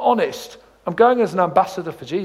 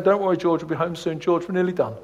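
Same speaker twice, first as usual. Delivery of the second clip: soothing dad; 3 semitones lower, 5 dB quieter than usual. Retold or imitated. Dad soothes screaming baby.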